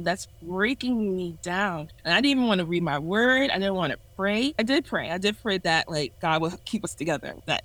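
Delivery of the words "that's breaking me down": slow repeat. Real, not acted. Repeating how the relationship broke her, slowly. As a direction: let "breaking" sink in slowly. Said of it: "that, that's breaking me down".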